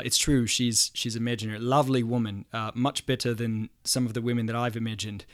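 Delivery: amateur imitation of a New Zealand accent. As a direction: play the second comedian, lightly New Zealand accented. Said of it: "the other guy says".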